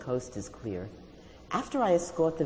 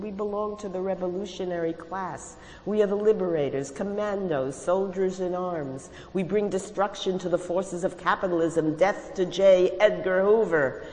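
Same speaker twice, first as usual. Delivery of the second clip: a rousing scold, higher and louder; 7 semitones higher, 4 dB louder than usual. A narrator's reading. Stalin scolding Ellie with a rousing revolutionary speech. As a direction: preach the revolution at her, rising and loud. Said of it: "he scolded".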